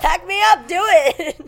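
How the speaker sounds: loud, high challenge; defiant dare. Pretend. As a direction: dare them loudly. Daring hackers jokingly.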